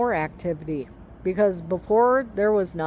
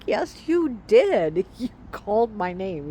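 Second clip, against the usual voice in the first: insistent retort; 3 semitones higher than usual. Retold or imitated. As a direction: hammer home that he did call, then laugh it off. Retold argument with husband.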